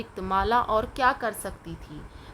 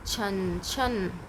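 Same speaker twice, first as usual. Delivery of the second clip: jingling sound; 2 semitones lower, much slower than usual. Shown as a demonstration. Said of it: "पायल की आवाज़ कैसी होती है?".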